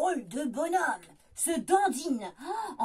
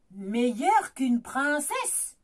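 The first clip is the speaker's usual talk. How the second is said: suspicious growl; 4 semitones lower, 4 dB louder, slower than usual. Acted. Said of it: "Grogne l'ogre méfiant".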